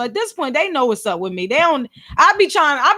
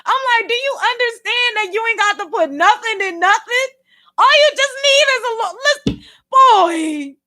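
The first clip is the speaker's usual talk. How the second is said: high, teary laughter; laugh-crying; 7 semitones higher than usual. Real, not acted. Vlogger laugh-crying over coworker's claim. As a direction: laugh till near tears.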